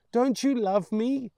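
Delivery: put-on high, loud little boy pleading; hurt child. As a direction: ask it like a wounded child.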